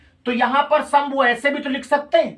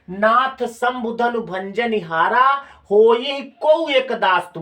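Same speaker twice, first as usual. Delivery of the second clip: slow recitation; slower than usual. Shown as a demonstration. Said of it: "देखो अभी हम पढ़ रहे थे".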